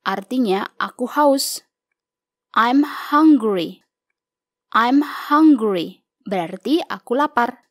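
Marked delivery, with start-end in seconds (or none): 2.5-3.8 slow model reading. Shown as a demonstration. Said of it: "Yuk mulai dengan membaca". 4.8-6.0 slow model reading. Shown as a demonstration. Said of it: "Yuk mulai dengan membaca".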